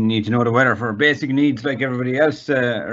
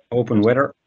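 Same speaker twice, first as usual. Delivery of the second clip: voice command. Shown as a demonstration. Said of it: "I'll open up the app".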